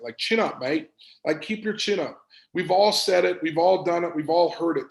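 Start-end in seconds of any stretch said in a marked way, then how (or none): 0.2-2.2 a hint of an English accent on "Chin up, mate"; light English accent. Speaker imitating how he hears chin up, light English accent. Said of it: "I always hear it in an English accent".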